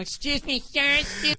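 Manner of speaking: lightly voiced prim stewardess. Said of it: "the stewardess going".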